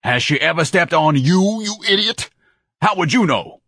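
high, loud exasperation; indignant retort. Acted. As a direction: berate him with pompous outrage. Ignatius snaps back at manager.

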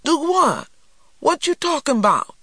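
high-pitched, loud confusion; bewildered. A narrator's reading. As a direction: ask it in baffled disbelief, pitched well up. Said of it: "looked completely bewildered".

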